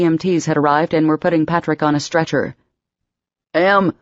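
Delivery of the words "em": a touch of panic, calling her name; panicked cry. Acted. Patrick on the stretcher calling for Emma, mildly panicked. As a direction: call for her through the mask. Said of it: "came his panicked cry".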